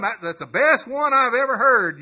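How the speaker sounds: loud imitation of a delighted churchgoer; excited praise. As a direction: cry out the praise again with delight. Cothran's praise retold.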